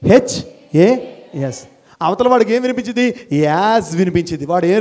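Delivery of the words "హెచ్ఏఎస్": letter by letter, very slow; slow spelling of the word; spelled out slowly. Shown as a demonstration. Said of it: "has spelling ఎలాగా".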